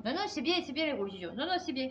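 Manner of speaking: mock approval, pitch jumping up on non, non; sarcastic. Real, not acted. Vlogger mocking religious wars to viewers, sarcastic. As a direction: fake cheerful approval dripping with irony. Ironic praise of religious violence.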